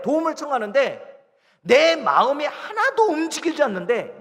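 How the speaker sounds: high, loud preaching voice; full-force preaching. Acted. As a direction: drive each point home, pitched high. (목소리를 높여 힘주어 설교하듯)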